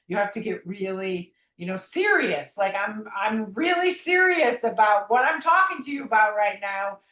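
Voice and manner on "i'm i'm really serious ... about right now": emphatic mock yelling, pitch climbing toward the end; retold screaming at God. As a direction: re-enact a demand to God, raised but short of a scream. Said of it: "I was screaming".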